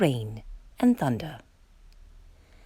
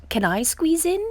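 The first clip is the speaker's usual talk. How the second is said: pleading duck; 8 semitones higher than usual. Acted.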